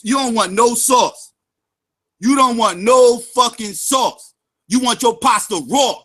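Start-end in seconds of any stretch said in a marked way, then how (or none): 0.0-1.3 slow taunt. Real, not acted. 2.2-4.3 slow taunt. Real, not acted.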